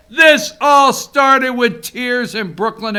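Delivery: shouted slowly, every word hammered; slow emphatic shout. Retold or imitated. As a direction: drive the quote home like a rally cry. Repeating the congressman's line with force.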